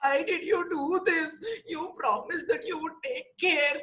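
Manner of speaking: tearful, pleading reproach; crying Viru. Acted. Viru cries at the monkeys, tearful. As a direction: cry out the broken promise.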